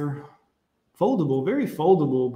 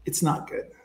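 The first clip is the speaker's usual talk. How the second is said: whispered verdict; 5 dB quieter than usual. Real, not acted. Whispering to chat about women's British accents. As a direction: whisper "it's not good" under the breath.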